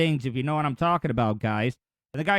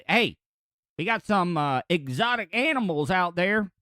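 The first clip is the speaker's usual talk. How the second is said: badly faked Philadelphia accent; a half-hearted try at a Philly accent; loose, unconvincing Philadelphia accent; attempted Philadelphia accent. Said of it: "can't even do a Philadelphia accent".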